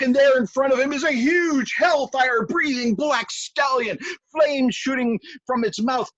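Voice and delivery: high, loud, rising storyteller climax; building excitement. A narrator's reading. Telling listeners of the huge stallion, loud and excited. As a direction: tell it big as the monster appears.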